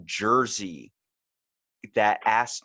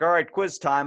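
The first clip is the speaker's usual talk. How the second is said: imitating the teacher; 7 semitones higher, 6 dB louder than usual. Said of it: "And then he's like".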